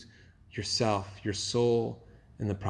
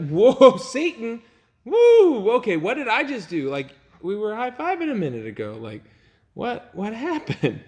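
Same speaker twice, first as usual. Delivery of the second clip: stunned; 9 semitones higher than usual. Pretend. Peter stunned by the rebuke.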